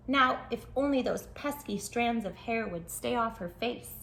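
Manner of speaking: lively storybook narration for little listeners; reading to children. Acted. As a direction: tell it like a bedtime picture book. Reads picture book aloud.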